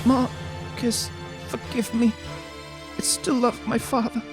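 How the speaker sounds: high, soft, sorrowful maiden; tender princess voice. Acted. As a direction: plead gently like a heartbroken princess. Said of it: "I'm mixing up the voices here".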